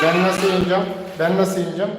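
high, pleading play voice; playful high voice. Pretend. Father asks daughter to help him.

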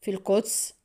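subdued, incredulous question; understated disbelief; disapproving disbelief. A narrator's reading. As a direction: echo it back in mild objection. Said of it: "قائلًا في استنكار".

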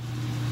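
soft, breathy gasp. Acted. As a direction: gasp under your breath in dismay. Reacting while acting out story.

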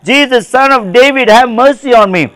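high pleading cry for mercy; imitating a beggar's cry; blind Bartimaeus crying out. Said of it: "Like blind Bartimaeus".

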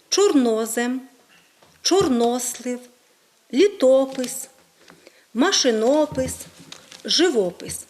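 each word set apart and carefully stressed; український наголос. Shown as a demonstration. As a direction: list «чорнозем», «чорнослив», «літопис» with deliberate Ukrainian stress. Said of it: "падає на інші склади". (чітко наголошені окремі слова, з паузами)

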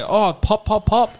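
a teasing high cartoon voice; mock eager voice. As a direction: lampoon the overeager team, pitched right up. Mocking the Broncos' eagerness.

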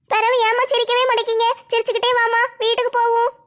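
lightly voiced young girl, coaxing. Daughter coaxes her mother to smile on the way home, lightly voiced coaxing girl.

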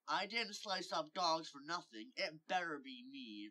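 mildly heated exclamation; exclaiming. Acted. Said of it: "Riley exclaimed".

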